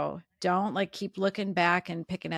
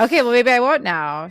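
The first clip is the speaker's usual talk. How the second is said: laughing through tears; 5 semitones higher, 11 dB louder than usual. Real, not acted.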